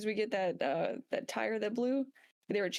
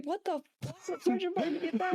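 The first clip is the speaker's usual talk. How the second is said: mock shout at the sergeant, pitched up; calling out; 9 semitones higher than usual. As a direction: yell after him to come back. Calling out to friend.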